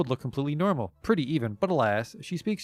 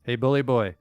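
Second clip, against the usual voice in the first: terrible belly voice. Acted. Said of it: "a terrible voice screeches out from her lower abdomen".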